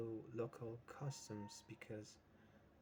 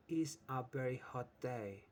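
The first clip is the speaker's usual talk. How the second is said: "Is a very hot day" read louder, pronoun gap left open; reading the blank sentence; 3 semitones higher, 6 dB louder than usual. Shown as a demonstration. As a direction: read the exercise line out loud for the class. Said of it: "What pronoun goes with that?".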